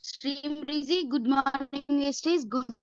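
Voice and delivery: choppy, cutting-out call audio; bad connection. Real, not acted. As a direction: voice breaking up over a weak signal. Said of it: "మీ voice break వస్తుంది".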